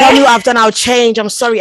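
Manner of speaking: loud mock pleading, voice pushed up; begging ex. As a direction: beg like a dumped boyfriend who cries. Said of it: "he's like".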